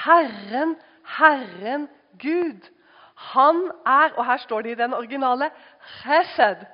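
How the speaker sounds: preacher proclaiming the verse, loud and high; loud proclamation. Acted. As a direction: proclaim the name of the Lord. Proclaiming scripture loudly.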